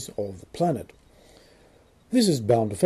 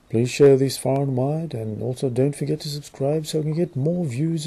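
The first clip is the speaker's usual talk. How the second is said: mock British accent. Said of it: "I'm trying to do this strange, non-existent British accent".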